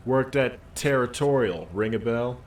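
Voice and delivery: loud, slow, proud union man; a dockworker puffed up and defensive; gruff union worker. Acted. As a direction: bark it out like a worker standing his ground. Worker character again.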